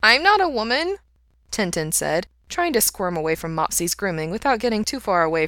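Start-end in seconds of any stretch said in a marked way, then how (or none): 0.0-1.0 high, louder protest from a small dog; little dog voice. A narrator's reading. Dog Tintin protesting to Mikey, high little voice. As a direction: squeak up an indignant doggy objection.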